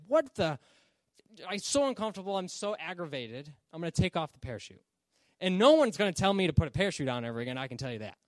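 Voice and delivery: acted exasperation; frustrated. Passenger with coffee spilled on his lap, acted frustration. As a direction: grumble like a fed-up passenger. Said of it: "he starts to get frustrated".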